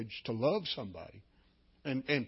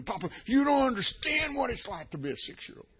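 mimicking a child; 10 semitones higher, 3 dB louder than usual. Repeating granddaughter's plea.

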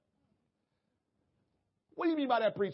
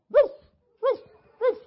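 bark like a dog; 12 semitones higher, 6 dB louder than usual. Retold or imitated. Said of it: "Bark like a dog".

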